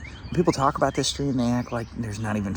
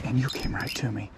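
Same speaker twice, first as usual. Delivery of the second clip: whisper; 6 dB quieter than usual. Real, not acted. Hushed while fish bites.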